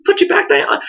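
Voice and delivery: a quick whisper; hushed aside. Pretend. Someone putting the rock back, whispered. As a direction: set it down gently and whisper. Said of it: "look under the right rock and go".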